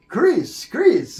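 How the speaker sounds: high, loud call of the name. Retold or imitated. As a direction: shout the name across the stage, twice. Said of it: "And he'd go".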